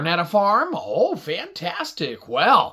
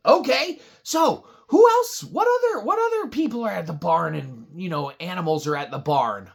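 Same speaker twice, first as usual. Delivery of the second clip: eager question. Acted. Host asks audience.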